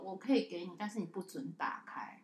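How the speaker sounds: put-on quietly warning the child not to open it. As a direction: hush it like a threat.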